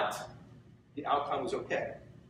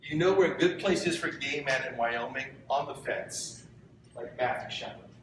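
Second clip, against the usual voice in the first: choked up. Real, not acted. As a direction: say it holding back tears. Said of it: "I'm choking up just saying it".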